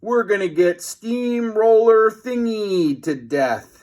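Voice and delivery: high, loud squeaky doom; terrified boy under the steamroller; panicked. A narrator's reading. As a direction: wail it out. Facing the steamroller.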